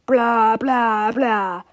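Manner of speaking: loud mock rant; yelling. A narrator's reading. Principal rants at school in the comic, mock yelling. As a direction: bark meaningless syllables as a rant. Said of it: "The principal was yelling".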